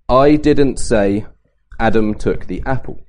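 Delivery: emphasis on "I" to set up the contrast; stress on I. Shown as a demonstration. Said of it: "Depending on where you put your emphasis".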